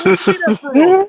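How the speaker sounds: high, loud disbelieving demand; retold shout at his daughter; indignant outburst. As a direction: fire it back at her, offended. Retelling an argument with his daughter.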